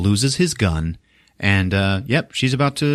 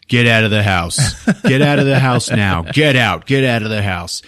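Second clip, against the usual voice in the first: firm, unscreamed command; acted firm order; 4 dB louder than usual. Rusty walking through telling all the sisters, firm command. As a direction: order everyone out, keeping it controlled. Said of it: "telling all the sisters".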